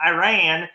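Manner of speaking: "Iran" said as eye-RAN, loud; mispronounced Iran. Shown as a demonstration. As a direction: hit "Iran" the wrong way, eye-RAN with a flat A as in "ran". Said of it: "trying to say Iran correctly because I don't want them to be like".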